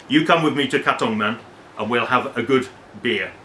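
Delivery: a light, self-mocking Singapore accent. A friend inviting the gentleman to Katong, in a light Singapore accent. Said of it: "Sorry about my bad Singapore accent".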